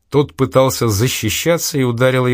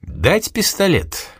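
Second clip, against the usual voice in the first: slow, higher, concerned offer; sympathetic offer; 9 semitones higher, much slower than usual. A narrator's reading. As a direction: offer it kindly, slowly. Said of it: "участливо спросил он". (участливо, медленно и выше)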